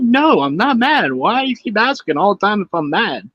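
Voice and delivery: a touch of put-upon protest; mock exasperated denial. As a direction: act out a mildly exasperated comeback. Acted reply to wife's repeated question.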